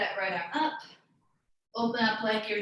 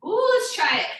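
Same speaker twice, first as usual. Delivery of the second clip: eager ooh; 9 semitones higher, 5 dB louder than usual. Real, not acted. Teacher eager to try chair step.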